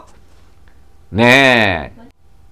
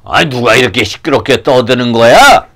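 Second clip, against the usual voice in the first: annoyed; 4 semitones lower than usual. Acted. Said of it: "사람들이 듣기가 싫었나 봐요".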